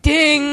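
mock lightbulb chime; imitated bell ding. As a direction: voice a little bell going off.

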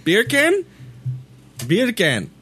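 probando un acento británico; British accent. Pretend. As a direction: try "beer can" in a British accent. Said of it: "You say beer can in a British accent".

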